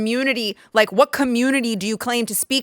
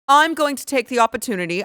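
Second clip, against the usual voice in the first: higher-pitched put-on English accent; mock English accent; 4 semitones higher than usual. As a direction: mimic a fancy person with an English accent. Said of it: "an English accent".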